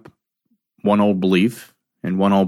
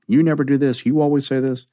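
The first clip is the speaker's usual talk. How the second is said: raised, pitch up, blaming; accusing partner; 6 semitones higher than usual. Retold or imitated. Partner quarrelling, mock accusing raised voice. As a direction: throw the accusation at your partner. Couple fighting in reaction.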